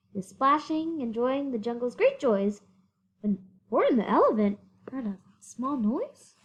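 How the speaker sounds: animated read-aloud voice; story narration. Acted. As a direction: read it out big for the kids. Reading to children.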